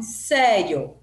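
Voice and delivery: "sério" slow, with a loud first vowel; weight the É of "sério", weaker "io"; strong-weak vowel demo. Shown as a demonstration. Teacher asking which vowel is weaker, stressed "sério". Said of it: "quem que é mais fraco?".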